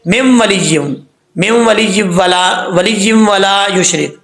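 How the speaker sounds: "مم ولیجم" with the waw lost into m; common misreading. Shown as a demonstration. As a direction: run "مم ولیجم" together without nasal oo glide. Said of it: "اب یہاں پر لوگ کیسے پڑھتے ہیں؟". ("مم ولیجم" لوگوں والی غلط ادائیگی)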